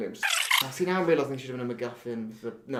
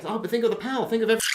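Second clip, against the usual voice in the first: tempted villain; 10 semitones higher, 4 dB louder, much faster than usual. Acted.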